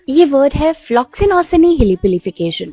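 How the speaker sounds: slow, careful teaching pace; slow demo. Shown as a demonstration. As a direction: spell the long word out slowly for learners. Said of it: "एक बार मुझे सुन लो और फिर मेरे पीछे आप repeat करिएगा।".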